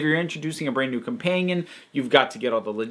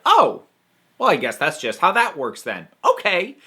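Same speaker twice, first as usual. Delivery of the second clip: unfazed acceptance; 3 semitones higher than usual. Retold or imitated. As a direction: imitate someone rolling with it. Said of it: "normally get hung up on".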